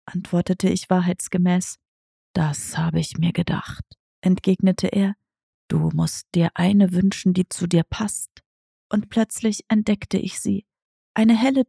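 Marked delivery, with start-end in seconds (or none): 2.3-8.4 lightly voiced lower cat, a touch softer; understated lower cat voice; tomcat Diego asking. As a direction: ask like a sly old tomcat.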